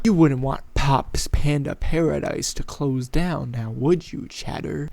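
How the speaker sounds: guilt-tripping. Acted. Jane and Moose pressuring Chatter, mock guilt-tripping. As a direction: lean on the name to guilt them. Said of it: "guilt tripping him".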